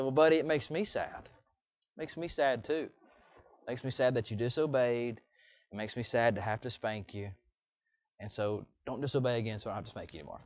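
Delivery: soft, low retelling of a gentle talk; consoling father. Retold or imitated. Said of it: "And I said".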